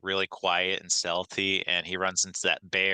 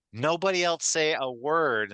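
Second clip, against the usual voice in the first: slow, higher mock director's order; stern director; 8 semitones higher, slower than usual. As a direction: play the bossy director hushing the room. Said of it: "the director's like".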